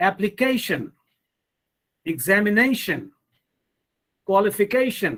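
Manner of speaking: application, examination, qualification stressed on the CA, NA, CA before -tion; each word drilled separately, appliCAtion, examiNAtion, qualifiCAtion; stress before the suffix. Shown as a demonstration. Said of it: "the syllable that comes immediately before these suffixes".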